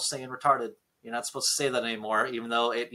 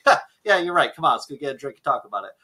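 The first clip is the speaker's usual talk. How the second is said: laughing reply; 5 dB louder, faster than usual. Retold or imitated. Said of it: "I would laugh and say".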